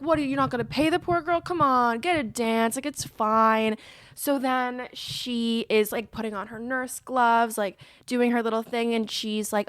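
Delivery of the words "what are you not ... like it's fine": lightly acted egging-on; coaxing friend. Best man urges groom to pay the dancer, coaxing.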